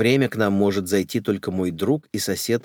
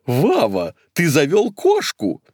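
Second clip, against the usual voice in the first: put-on high old lady exclaim; 6 semitones higher, 4 dB louder, slower than usual. Maka voiced.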